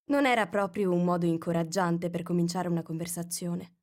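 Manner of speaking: plain reading voice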